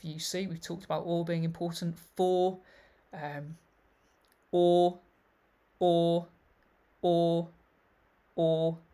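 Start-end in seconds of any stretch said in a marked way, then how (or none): 4.5-8.8 each "or" punched loud and separate; repeated stress. Shown as a demonstration. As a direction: hammer every "or" with a pause between. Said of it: "So we've got or being repeated".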